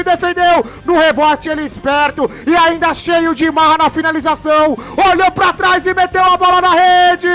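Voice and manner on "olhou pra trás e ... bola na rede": excited goal shout. Real, not acted. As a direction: belt it out over the goal. (narração gritada)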